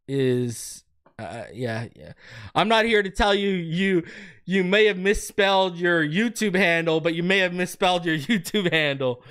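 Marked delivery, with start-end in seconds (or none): none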